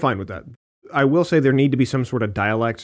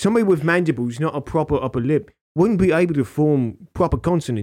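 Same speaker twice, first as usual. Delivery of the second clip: mock British urchin accent; British street urchin; 2 semitones higher than usual. Explaining mandibles and consonants, mock British urchin accent. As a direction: argue it as a dopey British urchin. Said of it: "Victorian street urchin".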